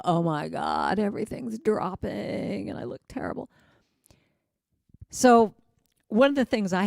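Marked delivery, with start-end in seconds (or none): 0.0-3.5 dismayed. Pretend. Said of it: "look at yourself and go".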